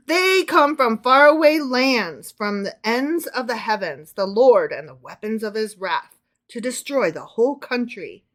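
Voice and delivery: stretched, weighty Bible verse; dramatic scripture reading. Acted. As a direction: declaim it like a prophet. Reads scripture aloud to co-host.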